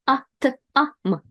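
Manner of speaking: "A-T-A-M" spelled out slowly, the O read as a clear A; first O as A. Shown as a demonstration. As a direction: spell it out slowly, saying each O as A. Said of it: "So it will be read as A".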